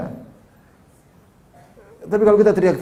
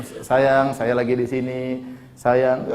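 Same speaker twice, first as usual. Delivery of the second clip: softly, a sweet "sayang" to a wife on the phone; tender call to wife; 5 semitones lower, 5 dB quieter, much slower than usual. Shown as a demonstration. Preacher voicing a husband phoning his wife, tender and soft. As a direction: coax her gently from far away. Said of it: "Panggil kata-kata yang, yang indah".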